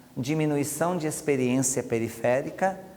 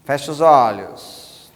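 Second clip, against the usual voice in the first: slow command; 7 dB louder, slower than usual. Shown as a demonstration. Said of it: "algumas pessoas vão fazer assim".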